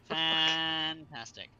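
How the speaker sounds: slow, sarcastic fantastic; drawn-out sarcastic. Real, not acted. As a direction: stretch it out, dripping with sarcasm. Repeated slowly after a mishap.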